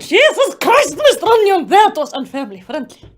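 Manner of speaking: loud, appalled exclamation; shocked scolding. Real, not acted. Reader appalled at Mister Onion, loud scolding. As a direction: scold the absent author loudly. Scolding author after choking on text.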